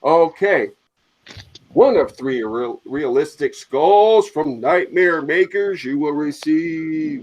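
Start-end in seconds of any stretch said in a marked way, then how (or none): 2.9-7.2 running out of air. Real, not acted. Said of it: "I'm running out of breath".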